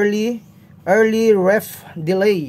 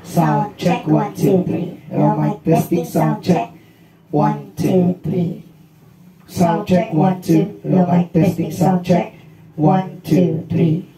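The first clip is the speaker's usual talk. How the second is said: deep pitch shifted; 2 semitones lower, much slower than usual. Shown as a demonstration. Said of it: "pitch shifter".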